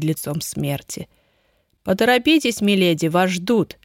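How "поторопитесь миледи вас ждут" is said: mocking. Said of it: "с издёвкой продолжил мучитель".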